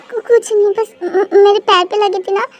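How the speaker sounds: stammering through mild tears, pleading to go home; a young woman half-sobbing about a hurt foot; acted crying. Girl tells her teacher she's hurt and wants to leave, teary. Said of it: "तुम रो क्यों रही हो".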